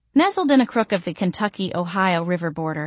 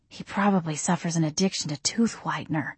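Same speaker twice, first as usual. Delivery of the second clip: musing; 6 dB quieter than usual. Acted. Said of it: "I mused".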